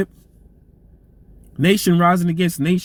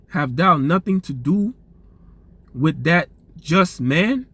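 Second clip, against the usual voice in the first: slow, measured reading of the verse; scripture reading. Acted. Preacher reading Matthew to his listeners, slow and solemn. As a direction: read each phrase deliberately, like holy text.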